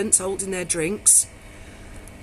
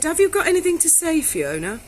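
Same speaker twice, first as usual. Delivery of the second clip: reporter quote; 8 semitones higher, 3 dB louder than usual. Retold or imitated. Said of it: "and she said".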